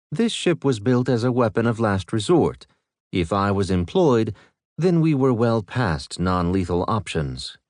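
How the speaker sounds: lightly voiced calm ship AI; even, measured machine voice. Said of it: "Lev explained".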